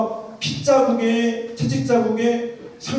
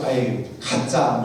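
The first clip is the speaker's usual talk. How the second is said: mocking kids; 10 semitones lower, slower than usual. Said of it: "이런 느낌이 좀 아이들이 들었던".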